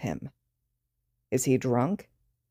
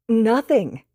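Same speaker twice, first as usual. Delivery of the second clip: cute giggle; 7 semitones higher, 5 dB louder than usual. Acted. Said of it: "Midoriya cutely giggles".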